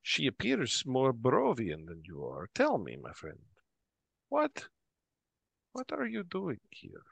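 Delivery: swooping pitch, probing innkeeper voice; barkeep questioning a stranger. Acted. Barkeep asks a friend what brings him here, probing. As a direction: sound out the newcomer as a curious barkeep.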